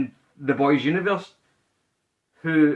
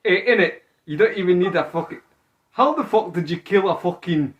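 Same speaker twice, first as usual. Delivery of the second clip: raised, mock London English accent; attempted London accent; 3 semitones higher than usual. Friend testing Butcher's voice on the rock-salt line, attempted London accent. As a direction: try out a shaky-knowledge London accent. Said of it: "That London?".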